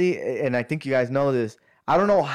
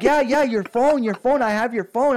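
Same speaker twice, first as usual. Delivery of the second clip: taxi driver voice; 9 semitones higher, 4 dB louder than usual. Retold or imitated. Taxi driver telling him he has the phone, in a put-on voice. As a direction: play the eager driver on the line.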